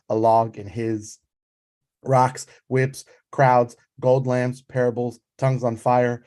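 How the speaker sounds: measured spoken-word poem, building a long list; poem reading. Acted. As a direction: read it like a litany, each item landing. Reads her poem aloud.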